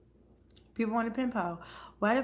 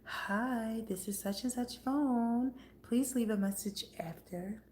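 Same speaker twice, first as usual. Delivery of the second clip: mock voicemail greeting; slower than usual. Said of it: "You want me to record your voicemail for you?".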